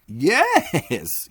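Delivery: a tiny bent doorkeeper amused; odd little man. Acted. Small bent man at door.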